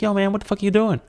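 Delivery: high pitched bug voice; spider voice. Pretend. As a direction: squeak it like a spider talking. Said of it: "but at really high pitch".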